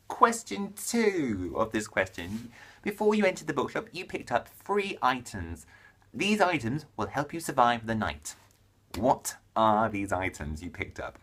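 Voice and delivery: deliberate announcement with drawn-out key words; question read-out. Acted. Vlogger reading the next tag question, dramatic read-out. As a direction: lay out the challenge theatrically.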